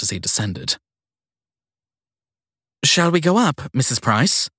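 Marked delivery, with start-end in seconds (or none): 2.8-4.5 put-on flustered young woman. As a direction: caught off guard and eager to please. Sadie to guest.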